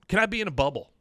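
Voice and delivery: put-on high, loud little-boy plea; lightly voiced kid asking hopefully; high kid's question; Bobby's question. Quoting Bobby's childish question.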